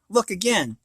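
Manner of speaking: bright, rising delight at the food; mama marvels at a miracle; mild excited exclaim. Acted. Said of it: "exclaimed Mama".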